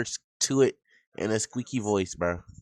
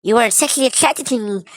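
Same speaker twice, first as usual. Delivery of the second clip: put-on a lightly higher girlish read; mock e-girl voice; 4 semitones higher than usual. Streamer rereading the ex's apology, light mock squeaky voice. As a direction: pitch it up to mock her. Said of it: "Let's read it in this voice".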